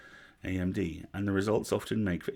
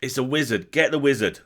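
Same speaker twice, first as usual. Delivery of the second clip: loud, raised-pitch cry of alarm; yelling; 6 semitones higher, 8 dB louder than usual. A narrator's reading. Narrator voices sergeant alerting troops to wizard, yelling. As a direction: sound the alarm with a yell. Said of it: "somebody was yelling".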